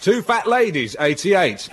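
sing-song bingo number calls; bingo caller. Acted. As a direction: call the numbers like a bingo hall. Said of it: "bingo calls before Vegas intro".

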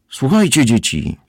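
wysokie, głośne zawołanie do dzieci; okrzyk. A narrator's reading. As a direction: krzyknij do dzieci wysokim głosem, opadając na końcu. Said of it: "krzyknął".

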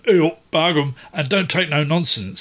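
lightly imitated Yorkshire accent. Describing a pipe-smoking Yorkshireman, light Yorkshire accent. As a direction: play a no-nonsense Yorkshireman, lightly. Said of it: "true Yorkshireman".

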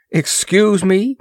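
high-pitched, drawn-out excuse; squawked. A narrator's reading. Moore excusing himself from Ross and princess, squawking. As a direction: make a pointed, squawky apology. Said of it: "squawked Moore".

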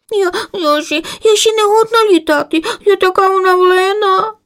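high, stammering tired-chick whine; whiny chick. Acted. Sleepy chick complains she's too tired to fly, whining high. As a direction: whine like a worn-out little bird. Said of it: "заслузила Савнавка".

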